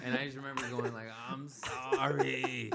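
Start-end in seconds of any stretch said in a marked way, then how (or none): 1.3-2.7 drawn-out wailing sorry, very slow; mock crying apology. Apologising to the family while puking, mock tearful wail. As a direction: stretch it out like a puking kid crying. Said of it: "Just crying, puking".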